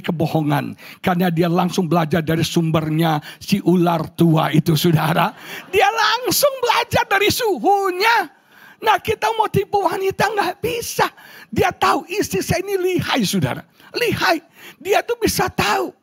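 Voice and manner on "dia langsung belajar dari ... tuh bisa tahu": high-pitched pulpit proclamation; animated preaching. Acted. Preacher warns husbands that wives always know, animated high preaching. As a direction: proclaim it high, like a comic warning.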